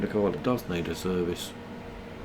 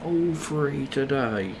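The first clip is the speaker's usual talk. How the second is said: slow, higher creepy lure; child catcher voice; 4 semitones higher, 4 dB quieter, slower than usual. Retold or imitated. Mocking the app ad like a creepy child catcher. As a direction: drawl it like a sinister sweet seller.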